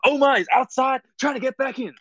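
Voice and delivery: high hyped-up podcast host; corny podcast intro. Pretend. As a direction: overdo the cheesy intro. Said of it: "a really corny thing".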